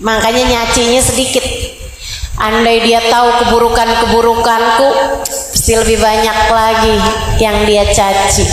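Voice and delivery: humble prayer. Acted.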